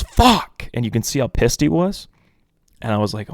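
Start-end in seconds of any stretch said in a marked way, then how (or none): 0.0-0.7 high, loud cursing outburst; retold shout, pitched way up; imitated yell. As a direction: yell it like a frustrated quarterback. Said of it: "and he just yells".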